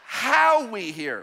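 "how" stretched long and hit hard; stress on how. Shown as a demonstration. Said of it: "Would you say how?".

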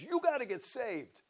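high, loud retold exhortation; loud, high-pitched mock ultimatum; mock urgent command. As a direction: imitate an insistent wife laying down the law. Wife pointing finger, retold command.

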